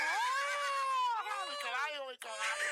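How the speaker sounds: high excited yell; shouting. Pretend. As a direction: belt it out with a loud whoop. Calling for his horse to dance.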